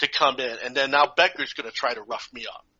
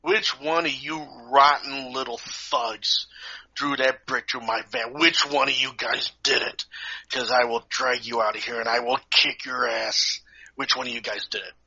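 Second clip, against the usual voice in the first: funny teacher voice. Retold or imitated. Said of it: "when he said it like that".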